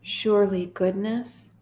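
slow, measured psalm reading with long pauses; guided meditation. Acted. Host leading sad listeners through Psalm twenty-three, slow guided meditation. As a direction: read gently line by line, leaving space to repeat.

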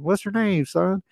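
put-on high-pitched big Southern accent. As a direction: imitate an old man's Southern twang. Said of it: "he had a big Southern accent".

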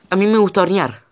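high, loud outburst; shouting. A narrator's reading. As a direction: blurt it out desperately. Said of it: "gritó Rosemary, desesperada por llamar la atención".

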